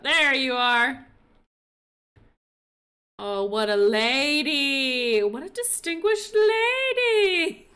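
slow, loud, teary; tearful admiration. Real, not acted. Admiring another dressed hen, slow and teary. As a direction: gush slowly, nearly crying. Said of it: "I'm trying not to sniffle".

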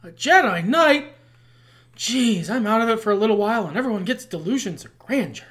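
a hint of Han Solo, scoffing at it; lightly voiced Han Solo waking up grumpy; Han Solo impression. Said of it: "Good old Han Solo".

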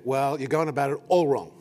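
mock-stern correction, put-on and unkind; mean, exaggerated telling-off. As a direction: imitate a blunt scolding. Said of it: "She's not mean like this".

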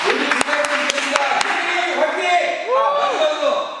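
high, slow, shocked by the cold; gasping out words while freezing wet; in ice cold water. Real, not acted. Just drenched with ice water.

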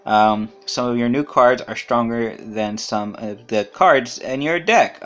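slow flat robotic reading. Acted. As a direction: read the text like a robot, monotone. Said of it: "I read that like a robot".

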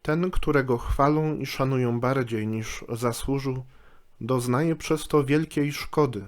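measured, slightly softened reading of a saying; solemn reading. Acted. Czyta na wstępie apoftegmat. (uroczyste, spokojne czytanie sentencji)

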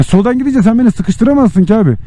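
ordinary talk

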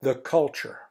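loud stern grandpa warning; mean grandpa voice. Acted. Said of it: "my mean grandpa voice".

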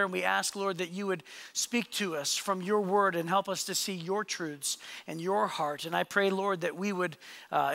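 earnest, measured prayer voice; public prayer. Real, not acted. Pastor leads congregation in opening prayer, earnest. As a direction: pray aloud for the congregation.

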